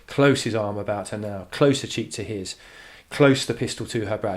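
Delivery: "Close" hit at each line's start; stress on first syllable. Shown as a demonstration. Teacher demonstrating the trochee in the poem, stress on first syllable. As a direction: punch every "Close" to drive the rhythm. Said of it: "emphasising the first syllable".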